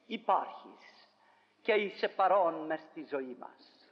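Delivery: earnest, measured prayer voice; preacher leading the congregation in a closing prayer. Acted.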